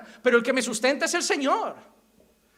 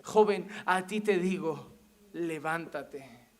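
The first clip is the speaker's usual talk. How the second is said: Jesus commanding slowly; 6 semitones lower, much slower than usual. Acted. Jesus repeats His order to the dead youth, slow solemn command. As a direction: draw out each phrase, dropping low and hushed. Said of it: "Y Jesús dijo".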